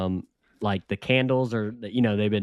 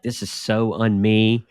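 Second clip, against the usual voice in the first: excited quote; 3 dB louder, much slower than usual. Retold or imitated. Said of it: "Rachel got so excited and she was like".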